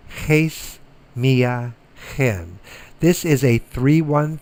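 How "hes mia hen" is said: Hes mia hen slow, each word apart; slow careful repeat. Shown as a demonstration. Teacher repeating the numeral for students, slow and clear. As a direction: say Hes mia hen slowly once more. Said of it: "rough breathing".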